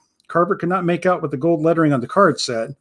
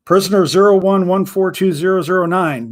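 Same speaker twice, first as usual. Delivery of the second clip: a touch louder, curt guard's bark; barked number; 3 semitones higher, 4 dB louder than usual. Acted. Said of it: "Magnus barked".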